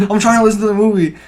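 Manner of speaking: loud, high retold complaint; imitating an exasperated moviegoer; irritated. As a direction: protest to a noisy audience. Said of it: "he was pretty irritated".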